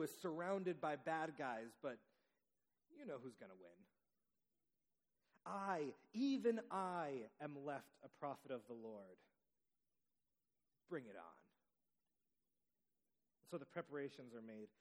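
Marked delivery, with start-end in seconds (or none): 5.4-11.4 tough guy bravado. Acted. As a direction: dare the whole crowd, one man against many. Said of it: "tough guy bravado".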